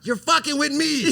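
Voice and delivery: Matt Damon. Retold or imitated. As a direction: play the scene half laughing. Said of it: "like Matt Damon in Good Will Hunting".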